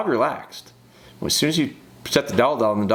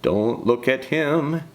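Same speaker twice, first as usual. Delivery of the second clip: lightly voiced dog, drawn-out self-warning; a hint of a dog coaching itself, slowly; reluctant dog; 3 semitones higher, slower than usual. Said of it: "as you're forcing this dog to look".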